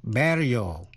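"Burial" with U said as E, BEH-ree-ul; teacher's model of "Burial", BER first; U pronounced E. Shown as a demonstration. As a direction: say the start of "Burial" like "berry". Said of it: "đọc như E".

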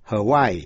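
Hawaii in three syllables. Shown as a demonstration. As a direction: say Hawaii as "huh-WAI-ee". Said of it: "phát âm làm ba syllables".

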